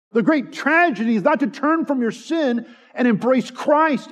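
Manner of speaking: emphatic, rhythmic pulpit refrain; forceful sermon climax; impassioned preaching. Real, not acted. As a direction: hammer home each repeated warning like a preacher.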